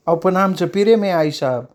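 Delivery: mild tearful plea; tearful protest. Acted. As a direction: plead your love, hurt.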